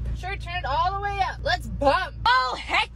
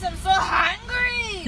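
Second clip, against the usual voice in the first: whiny; 4 semitones higher, much slower than usual. Acted. Kid whining for McDonald's.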